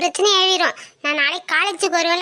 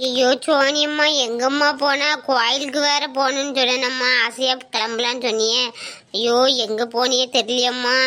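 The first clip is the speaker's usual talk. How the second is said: lamenting mother; 5 semitones lower than usual.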